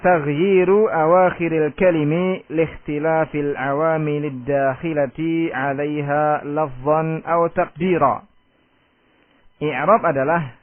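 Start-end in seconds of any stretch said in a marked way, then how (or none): 0.0-8.2 slow, measured recitation of the Arabic text; recited definition. Shown as a demonstration. Teacher reciting the book's definition to students, slow and measured. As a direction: recite it carefully like a memorised text. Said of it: "Kata Ibnu Ajurum".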